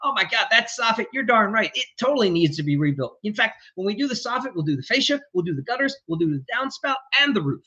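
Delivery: match their excitement, then steer; enthusiastic. Shown as a demonstration. Contractor matching the influencer client's energy, enthusiastic. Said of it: "you get enthusiastic".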